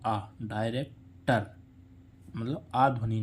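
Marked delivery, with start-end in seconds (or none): 0.1-1.5 आ held slowly then डायरेक्टर; slow teaching demo of आ in डायरेक्टर; stretched demo. Shown as a demonstration. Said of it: "इसका उच्चारण क्या हो रहा है".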